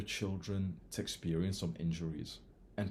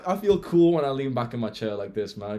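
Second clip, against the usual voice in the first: ordinary talk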